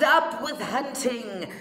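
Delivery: mock dinosaur battle cry; shouted. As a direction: shout it like little hunters. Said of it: "And they shouted".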